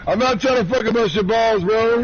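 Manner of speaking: retold protest. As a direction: squeak it out like you're pleading innocence. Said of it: "I was like".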